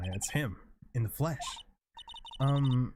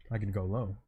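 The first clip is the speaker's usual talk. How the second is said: dropped lower, trying a deep voice; 4 semitones lower than usual. Shown as a demonstration. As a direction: lower the pitch for a character. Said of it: "Maybe I could go low".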